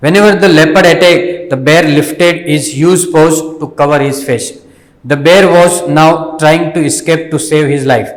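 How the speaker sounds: slow, carefully paced reading aloud for learners; slow story reading. Shown as a demonstration. Teacher reading the story slowly to the students. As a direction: read each word out slowly and clearly.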